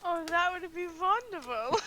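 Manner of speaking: put-on botched German accent sliding into vampire; failed German accent, vampire-like. Player accepting a Derby invitation, botched German accent. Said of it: "Are you a vampire now?".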